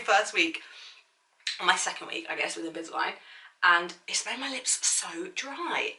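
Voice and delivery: slight lisp from Invisalign aligners. Real, not acted. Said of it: "sorry if you can hear the lisp as well that I have developed".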